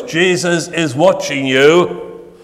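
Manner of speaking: spooky slow parrot warning; slow eerie warning. Acted. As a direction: drag each word out like a haunting. Voice speaks a third time.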